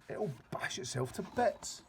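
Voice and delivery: put-on high, slow alarmed child voice; girl worried about the dream, high and slow. A narrator's reading. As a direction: fret about it. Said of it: "Sophie cried".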